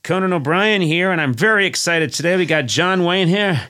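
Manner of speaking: a touch of cheesy announcer; billboard-ad host intro; mock podcast host. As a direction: ham up the show opening lightly. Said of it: "it's me saying".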